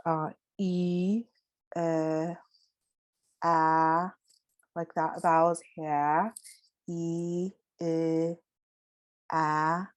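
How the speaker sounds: E, I, ah, each vowel held apart; vowel sounds. Shown as a demonstration. Teacher leading students through the vowels: E, I, ah. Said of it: "notice how you're saying it".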